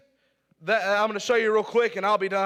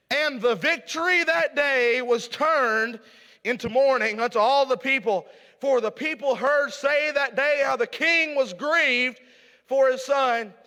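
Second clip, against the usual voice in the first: slow, solemn reading of scripture; slower than usual. Acted. Preacher reading the verse to his church, slow and solemn. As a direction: read the verse slowly, weighing each line.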